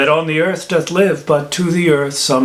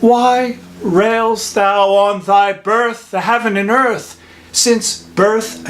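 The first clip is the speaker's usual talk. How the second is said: raised, insistent questioning; impassioned reproach; 4 semitones higher than usual. Acted. Friar to man bent on killing himself, reproachful. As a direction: demand answers in a high, heated voice. Friar rebukes self-destruction.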